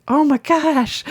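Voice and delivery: high-pitched retold delight; delighted exclamation. Recalling how fun the show was, delighted.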